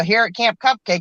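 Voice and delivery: ordinary talk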